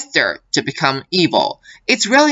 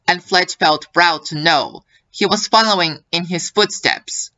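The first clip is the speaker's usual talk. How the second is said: narrator voice. Acted. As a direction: read it like an audiobook narrator. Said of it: "let me put on my narrator voice".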